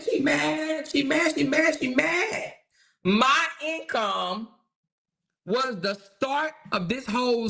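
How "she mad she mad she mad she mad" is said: gloating. Real, not acted. Gloating over the hater.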